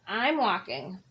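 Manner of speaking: low, sulky bird voice; grumpy bird. Acted. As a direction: answer like a sulking bird.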